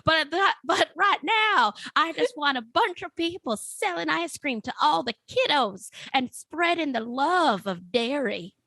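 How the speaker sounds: a hint of a folksy 1920s vendor; 1920s ice cream man. Ice cream man Harry boasting to the host about his wish list, lightly voiced. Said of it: "I want you to be a nineteen twenties ice cream truck driver named Harry".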